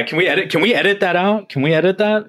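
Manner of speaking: high-pitched mock-worried plea; playful pleading. Real, not acted. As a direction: plead for a cut, voice climbing high. Jokingly pleading to cut the confession.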